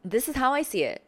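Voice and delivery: playfully sharp disagreement; sharp pushback. Shown as a demonstration. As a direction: shut the idea down with a laugh. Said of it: "we're all nonchalant, but we're stating a point".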